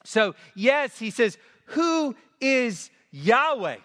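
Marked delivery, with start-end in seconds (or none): 1.7-3.8 slow, high question landing on Yahweh; scornful weight on Yahweh; stress on Yahweh. Shown as a demonstration. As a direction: draw it out and lean on Yahweh. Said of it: "So the emphasis on Yahweh".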